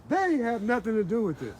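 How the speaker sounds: furious shout. Real, not acted. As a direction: roar it at the officials. Man told to leave his camp.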